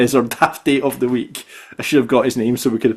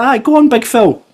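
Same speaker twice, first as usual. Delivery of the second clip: sarcastic; 10 semitones higher, 4 dB louder than usual. Retold or imitated. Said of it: "I was like".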